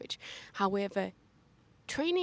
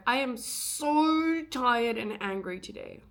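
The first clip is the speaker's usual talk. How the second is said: mock shout; 2 semitones higher, 4 dB louder, slower than usual. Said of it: "can you please shout and be like".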